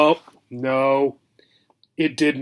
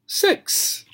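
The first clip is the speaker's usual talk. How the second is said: breathless count; 5 dB quieter than usual. Pretend. Counting while holding breath.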